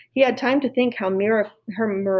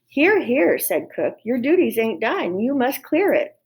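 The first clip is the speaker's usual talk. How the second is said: higher, sharp and commanding; bossy cook; 4 semitones higher than usual. Acted. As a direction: order the servant girl around. Cook orders Mig.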